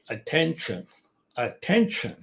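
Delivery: "attention" with weight on "ten", falling after; stress on second-last syllable. Shown as a demonstration. Teacher repeating a -tion example, second-last syllable stressed. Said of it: "you hear it on that second last syllable".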